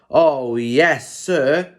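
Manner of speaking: bright eager reply; light happy agreement; happily. Acted. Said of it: "said Henry happily".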